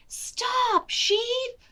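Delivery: high sharp call; calling stop. Acted. Betsy stopping the sheep, high call. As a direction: halt the flock.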